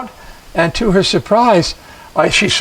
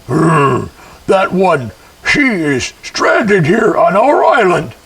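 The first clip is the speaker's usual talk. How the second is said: slow, otherworldly murmur; an unseen spirit musing, slowed down; strange spirit voice; slower than usual. A narrator's reading. Spirit spotting the stranded girl, slow and eerie. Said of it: "none of them sounded quite like people".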